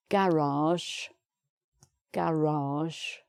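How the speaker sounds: "garage" with the R sounded at the start of syllable two; teacher modelling "garage" with its R pronounced; R on second syllable. Shown as a demonstration. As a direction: say "garage" carefully, clear middle R. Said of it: "Again, it's the second syllable".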